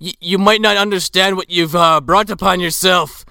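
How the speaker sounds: put-on Irish accent slipping into Scottish; old Irishman, Irish accent. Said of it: "I'm turning Scottish as this accent continues".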